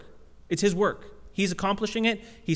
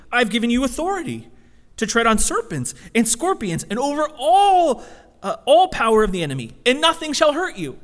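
louder, higher, emphatic repeat; doubling down; 4 semitones higher, 5 dB louder than usual. Retold or imitated. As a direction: press the promise home harder. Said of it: "So he, he doubles down".

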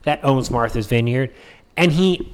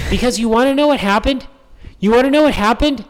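excited teaser; 7 semitones higher, 3 dB louder, faster than usual. Real, not acted. Repeated teasing question.

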